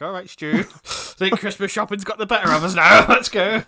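loud, laughing cover-up; too loud voice. Retold or imitated. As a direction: say it far too loudly. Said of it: "Way too loud voice".

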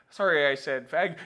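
lightly voiced announcer's apology; baseball voice. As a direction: slip the apology into play-by-play. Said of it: "Imagine the baseball voice saying that".

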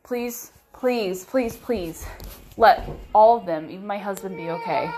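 frightened pleading, voice breaking into tears by the end; a scared plea that cracks on the last words; tearful desperate prayer. Retold or imitated. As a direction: beg God to keep them safe, near crying. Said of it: "I'm sitting there thinking".

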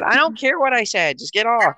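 mock motherly scolding; insistent angry mom. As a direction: lay down the law like an irritated mom. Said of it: "And she said".

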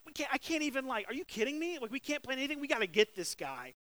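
frustrated king. Retold or imitated. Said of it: "the king gets super frustrated".

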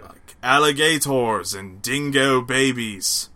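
slow hammed-up Aussie voice; Australian accent. Mock Australian after down under.

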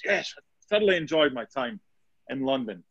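lightly put-on posh English voice; posh English accent. Guest recalling his time in London, mock posh English accent. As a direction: imitate an interviewee with a hint of posh English. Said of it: "putting on a posh English accent".

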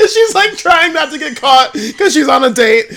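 talking through laughter; laughing. Real, not acted. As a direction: giggle through the words. Laughing while describing.

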